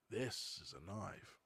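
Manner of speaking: slow, drawn-out movie-line delivery; Crocodile Dundee quote. Retold or imitated. Quizzing viewers on the knife line, lightly imitated Dundee. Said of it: "Is that how he says it?".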